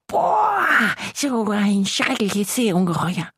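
high gasp of fake terror; mock frightened bather. Little monster imagines bathers fleeing, mock terrified. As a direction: squeak out the people's pretend fright. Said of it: "laufen alle davon und denken".

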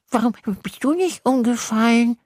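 high questioning monster voice; the little monster puzzled by the boy; curious little monster. Acted. (neugieriges kleines Ungeheuer)

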